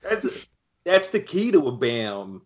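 drawn-out Delco dude accent. Shown as a demonstration. Cohost showing how Bam should sound, mock Delco accent. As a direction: lay on slow, stretched Delco vowels. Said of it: "put any Delco stank on that accent".

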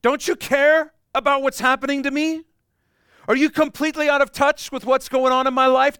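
high, loud frantic complaint to God; panicked whiner. Acted. Believer in a storm accusing God of not caring, shrill panicked wail. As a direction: wail every accusation like you're drowning. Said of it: "The disciples respond just like we normally do".

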